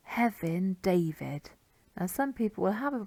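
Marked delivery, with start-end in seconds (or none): 0.1-1.5 "Hefin David" with F as V and an English "David"; anglicised surname. Shown as a demonstration. Teacher demonstrating names, "David" anglicised after Welsh "Hefin". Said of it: "kind of anglicised way".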